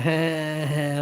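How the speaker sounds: retold mocking laugh. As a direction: fake ha ha ha. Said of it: "like that, all laughing".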